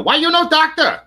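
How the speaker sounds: high, hammed-up Asian accent; mock Asian accent asking why not a doctor; mock Asian parent. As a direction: scold like a stereotyped Asian parent. Mocking strict Asian parents.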